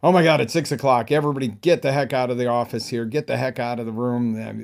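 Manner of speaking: loud, fast, frantic shouting at everyone; panicked yelling. Retold or imitated. Taxpayer at six o'clock shouting everyone out of the office, loud frantic panic. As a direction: yell them out of the office in a deadline panic. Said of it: "So you go".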